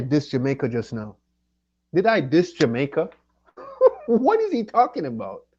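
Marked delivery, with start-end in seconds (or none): 1.9-3.1 indignant. Real, not acted. Indignant rant about being accused. 3.6-5.5 laughing in disbelief, high and loud; a high, incredulous laughing outburst. Real, not acted. Incredulous at accusation.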